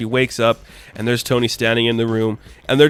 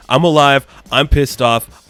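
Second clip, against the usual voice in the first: pissed off; 2 semitones higher, 5 dB louder, slower than usual. Retold or imitated. Tony's angry splash page.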